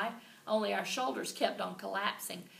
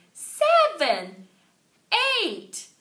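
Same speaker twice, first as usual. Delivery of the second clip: high, loud cheering count; shouted count; 9 semitones higher, 14 dB louder, much slower than usual. A narrator's reading. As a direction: yell each number louder. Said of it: "we shouted".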